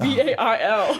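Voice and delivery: "B A I L" spelled slowly, letter by letter; spelled-out accented name. Shown as a demonstration. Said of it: "it's almost like Bail".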